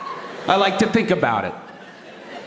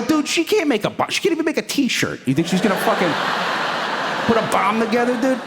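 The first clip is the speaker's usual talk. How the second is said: incredulous; 7 semitones higher than usual. Retold or imitated. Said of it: "I go".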